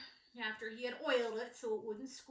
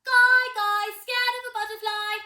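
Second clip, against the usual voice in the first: loud, much higher sing-song chant; children's taunt; 9 semitones higher, 14 dB louder than usual. Acted. Cook's children chant at Guy, loud sing-song. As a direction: tease like playground kids. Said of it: "run out and yell".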